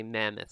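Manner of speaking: "mammoth" with MAM stressed, weak second syllable; stress on first syllable. Shown as a demonstration. Teacher models the word for students, "mammoth" stressed up front. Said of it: "It's the stress of where you put".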